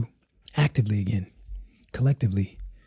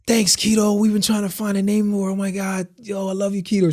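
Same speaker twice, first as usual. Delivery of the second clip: joyful thanks; 7 semitones higher than usual. Retold or imitated. Friend thanks wife joyfully.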